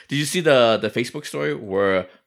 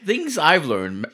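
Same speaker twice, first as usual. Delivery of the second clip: mocking title read; 4 semitones higher, much slower than usual. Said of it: "Albert would not give maximum effort".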